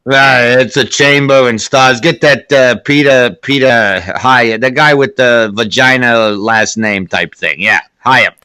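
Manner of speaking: lightly voiced studio boss; old-time Hollywood studio executive. Executive fumbles for the director's name, lightly hammed-up. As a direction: play a mock mogul groping for a director's name. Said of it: "That's how Hollywood worked back then".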